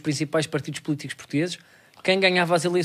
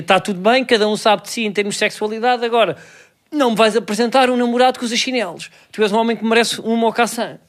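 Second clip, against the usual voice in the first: higher, louder protest; mock indignant father; 5 semitones higher, 3 dB louder than usual. Father objecting to the boyfriend's chinelos, mock indignation. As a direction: lay down the law as a put-upon dad.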